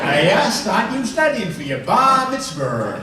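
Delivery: put-on high, loud old Jewish grandfather accent, slow at the end; grandpa's thick Jewish accent, fondly imitated. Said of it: "It's a Jewish accent".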